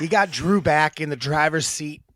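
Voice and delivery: husky morning voice; sultry voice. Real, not acted. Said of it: "I got my sultry voice going today".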